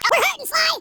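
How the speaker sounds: high, worried call to the captain; urgent alarm. Acted. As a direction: cry out that things are going badly. Crew shouts damage reports in battle.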